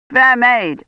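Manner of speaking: gallant knight. Acted. Gawain voices himself greeting the maiden. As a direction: call to her like a rescuer. Gawain quotes his own words.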